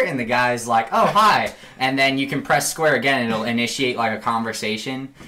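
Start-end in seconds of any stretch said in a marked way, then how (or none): 0.9-1.5 higher-pitched, pleasantly surprised hello; imitated townsperson reply. Townsperson replying to Arthur's greeting, imitated friendly reply. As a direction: answer a stranger's greeting, voice lifted.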